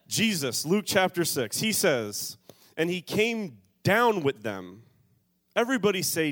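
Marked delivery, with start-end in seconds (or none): 2.8-4.8 slow reading that leans on "down"; stress on down. Shown as a demonstration. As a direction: lean hard on the word "down", slowed. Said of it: "here's why we emphasize the word "down".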